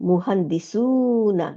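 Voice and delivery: মুহান্দিসুনা drawn out very slowly, syllable by syllable; slow demo. Shown as a demonstration. Teacher slowly demonstrates মুহান্দিসুনা with its উনা ending. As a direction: spell the word out slowly for students. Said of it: "এই যে উনা".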